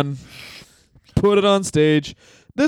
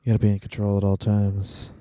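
low gravel-free deep boss voice; low, deliberate mock tycoon; Vince McMahon voice; 8 semitones lower than usual.

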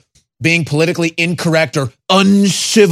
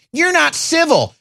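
mocking quote; 11 semitones higher than usual. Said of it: "They're saying".

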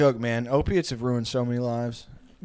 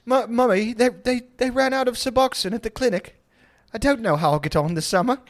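mock whiny child; 8 semitones higher than usual. Whining to mummy.

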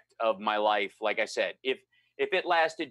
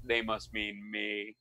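softer, slow, unsure aside to himself; muttered aside; 4 semitones lower, 7 dB quieter, slower than usual. Retold or imitated. Unsure if a stranger calling Michael means him, murmured softly. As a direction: say it under your breath, doubting. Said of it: "it's a little nuts to go".

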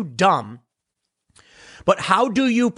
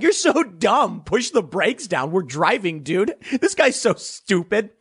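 higher, slow sneer "You're so dumb"; slow, higher caricature of mocking passengers; mock condescending leftist; 4 semitones higher, slower than usual. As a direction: drag out the scorn like a smug heckler.

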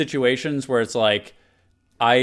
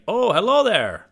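higher-pitched ogre greeting impression; Shrek; 8 semitones higher than usual. Host previews the sound bite for friends, imitating Shrek. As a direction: put on a movie ogre's hearty hello. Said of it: "The other one is Shrek, and he's saying".

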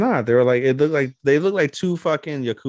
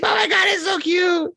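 excited squeal. Real, not acted. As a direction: squeal with delight at the picture. Fan reacting to picture.

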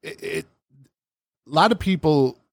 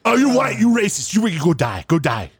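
put-on high, sneering kid voice; mocking the kid; 7 semitones higher than usual. Retelling the kid's insult in a high, snotty mock. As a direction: parrot the teen high and snotty. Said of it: "Oh, I loved it".

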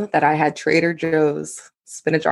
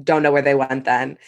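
sarcastic; 2 semitones lower than usual. Retold or imitated. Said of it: "I just kept going".

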